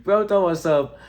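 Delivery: high, loud laughing "Bro, what?"; laughing disbelief. Real, not acted. Reacting to the silver-lining clip, laughing high and loud. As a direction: squeal through laughter in disbelief.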